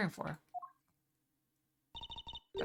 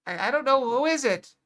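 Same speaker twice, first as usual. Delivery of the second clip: higher, louder baffled question; startled; 5 semitones higher, 7 dB louder than usual. Real, not acted. Player baffled by the mountain man, higher and louder. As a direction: blurt it out puzzled. Startled reaction to odd arrival.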